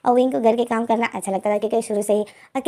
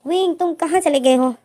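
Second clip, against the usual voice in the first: shouting his name, terrified he is gone; frantic shouting; 5 semitones higher than usual. A narrator's reading. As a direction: call out in a panic for a lost friend. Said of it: "बहुत ज़्यादा चीखें मार रहा था".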